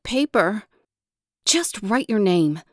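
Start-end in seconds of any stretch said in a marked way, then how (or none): 1.4-2.6 short, impatient teacher order; snapping. Acted. Teacher tells the child to write her name, mildly snapped. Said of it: "she snaps".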